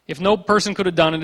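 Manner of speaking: ordinary talk, nothing marked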